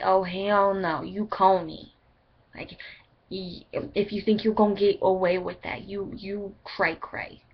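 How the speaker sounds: lightly put-on slangy attitude, slowing at the end; mock telling-off, dragging out the last words; joking put-on sass. Jokingly telling off the boyfriend, mock sassy. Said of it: "I don't talk like that".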